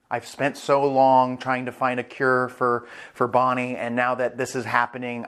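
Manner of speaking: subdued, earnest character voice; understated, grateful and sincere; imitated heartfelt acceptance. Kuma accepting the deal to save Bonnie, heartfelt.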